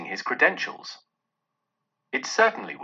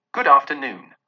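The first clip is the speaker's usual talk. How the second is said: curt dismissal; 6 dB louder than usual. Acted. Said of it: "said Scrooge".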